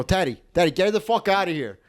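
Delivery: hammed-up call for the boss; mock outraged demand. Doorman calls on the club owner, mock outraged demand.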